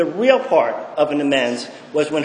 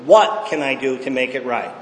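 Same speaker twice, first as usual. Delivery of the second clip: lower, sincere, humble question; right way to ask; 4 semitones lower than usual. Shown as a demonstration. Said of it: "And then you shut up and take it".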